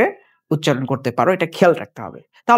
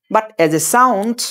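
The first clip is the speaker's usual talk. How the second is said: slow sound demo; 3 semitones higher, much slower than usual. Shown as a demonstration. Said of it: "সেটাকে আমরা বলবো কি?".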